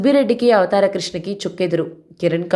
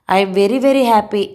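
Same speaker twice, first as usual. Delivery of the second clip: slow happy murmur; 3 semitones higher, 4 dB louder, much slower than usual. Acted. Wife to husband in bed, slow and happy. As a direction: savour every word, very slowly.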